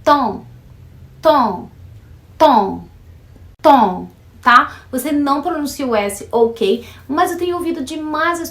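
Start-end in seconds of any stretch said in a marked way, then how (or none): 0.0-4.1 temps repeated loud and clipped, nasal vowel, no final s; temps without the s. Shown as a demonstration. Teacher drilling temps for students, louder each time. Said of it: "a pronúncia da palavra tempo em francês".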